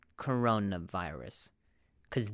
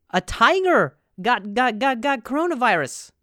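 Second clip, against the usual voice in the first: loud announcement; 9 semitones higher, 7 dB louder than usual. Shown as a demonstration. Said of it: "first loud take of headline".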